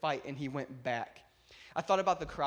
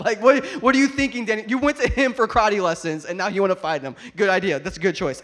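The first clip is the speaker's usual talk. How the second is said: mocking disbelief; 4 semitones higher, 12 dB louder than usual. Real, not acted. Mocking Daniel's choice.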